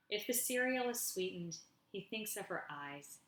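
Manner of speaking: measured poem recital, falling line ends; poetry reading. Acted. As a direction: read it line by line with pauses. Reads own poem aloud.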